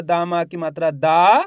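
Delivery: slow, with the final दा held long; drawn-out vowel. Shown as a demonstration. Teacher showing learners the vowel sign, final दा pulled long. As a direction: stretch the last दा to show its long vowel. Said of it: "दा का उच्चारण खींच को रहा".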